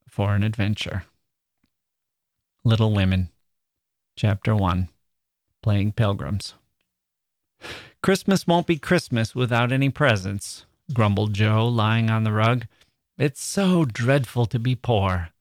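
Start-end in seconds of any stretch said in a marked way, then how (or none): 2.6-12.7 reading a classic novel aloud, evenly paced; story narration. A narrator's reading. Reads Little Women aloud. 13.2-15.3 sighing. Acted. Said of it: "sighed Meg".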